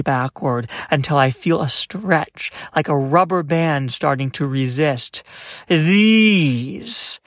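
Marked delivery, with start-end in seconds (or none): 5.7-7.2 high, loud pained scream. A narrator's reading. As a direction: scream as if it hurts. Ghost screams in pain.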